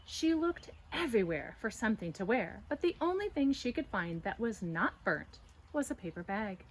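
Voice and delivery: put-on lively read-aloud for children; storybook narration. A narrator's reading. Teacher reading a picture book to children, lively. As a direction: tell it brightly to young listeners.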